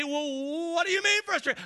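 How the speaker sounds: high, loud incredulous question; pushy questioning. Retold or imitated. Preacher voicing a friend who questions the frustrated one, incredulous. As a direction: press them, unbelieving. Acted questioner pushing back.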